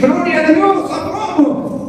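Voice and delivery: high, slow laughing relief; relieved laugh. Retold or imitated. Student who passed an exam, high laughing relief. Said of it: "Y decís".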